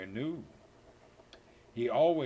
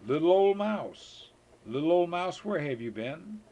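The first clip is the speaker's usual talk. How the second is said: high, loud call to the mouse; 6 semitones higher, 7 dB louder than usual. Acted. Reading the mouse rhyme aloud, calling out brightly.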